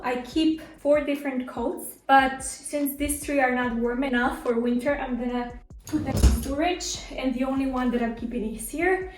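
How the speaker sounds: winded from running up and down stairs; breathing hard between words. Real, not acted. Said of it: "Sorry, I'm out of breath".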